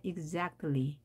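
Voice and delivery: exactly drawn out very slowly, syllable by syllable; slow careful exactly. Shown as a demonstration. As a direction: stretch out exactly slowly for learners. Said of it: "짧게".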